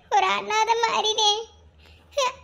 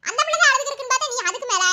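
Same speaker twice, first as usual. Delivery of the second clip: laughing teasing; 3 semitones higher, faster than usual. Acted. Laughing at crying man.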